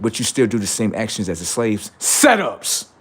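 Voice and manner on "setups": eerie setups. Acted. Eerie tag word.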